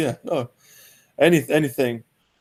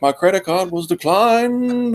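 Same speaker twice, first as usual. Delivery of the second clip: put-on Boston accent; 6 semitones higher, slower than usual. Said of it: "they'll be like".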